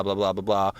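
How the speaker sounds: usual speaking voice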